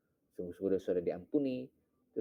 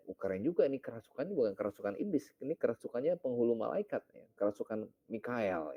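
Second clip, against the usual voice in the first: amused inner thought; 4 semitones higher than usual. Retold or imitated. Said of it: "dalam hati saya".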